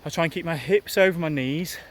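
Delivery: breathy, loud talk mid-run; speaking while jogging. Real, not acted. Talks while running, loud.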